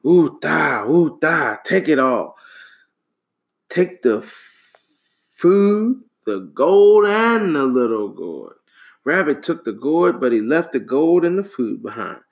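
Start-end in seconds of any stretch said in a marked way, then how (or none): 0.0-8.6 loud, furious shouting; angry shout. A narrator's reading. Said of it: "The king angrily shouted".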